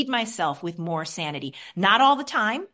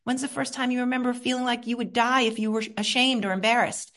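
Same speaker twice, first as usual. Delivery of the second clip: gentle questioning; 3 semitones higher than usual. Shown as a demonstration. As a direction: ask gently, like a therapist. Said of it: "And I say".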